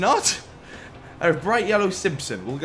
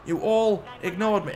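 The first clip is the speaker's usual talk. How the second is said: mock-offended complaint, pitched up; indignant rant; 5 semitones higher than usual. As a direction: scold them, hurt and outraged. Ranting at ignoring bystanders.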